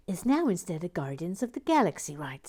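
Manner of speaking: put-on a breathy, hushed go at an American accent; light American accent, half whispered. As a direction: redo the line in the commenter's LA American accent. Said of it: "I forgot to do your accent".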